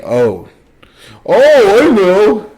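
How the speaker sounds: high, loud, shrieking mock of Vanessa; mocking her. Mocking a friend's group-chat reply, shrieked high and loud. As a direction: squeal it back like a ditzy friend. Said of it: "She's, she's saying".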